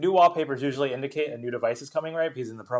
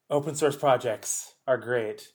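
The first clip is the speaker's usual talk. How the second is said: sarcastic; slower than usual. Real, not acted. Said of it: "This is a little sarcastic".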